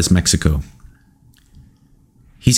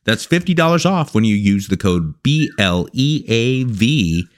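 steady promo voice for the sponsor; ad read. Acted. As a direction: read the ad like a pitchman.

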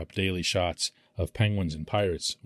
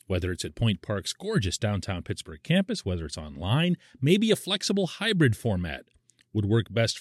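upbeat sponsor read; 3 semitones higher than usual. Acted. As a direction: read it like a radio ad.

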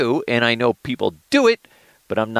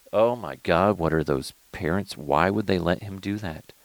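disapproving commentary, kept under your breath; quietly tut-tutting onlooker; judgmental parent; 2 semitones lower, 5 dB quieter than usual. Acted. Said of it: "judge the shit out of those parents".

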